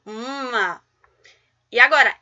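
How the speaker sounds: ordinary talk, nothing marked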